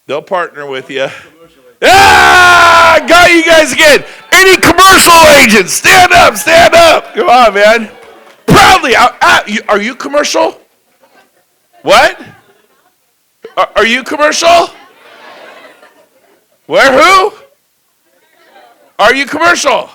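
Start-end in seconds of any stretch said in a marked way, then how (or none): 1.8-7.9 very loud, high rally shout; shouting to crowd. Real, not acted. Speaker calling commercial agents to stand, full shout. 8.5-19.9 high, loud teasing shout; loud teasing call. Real, not acted. Speaker teasing shy agents, loud shouted question.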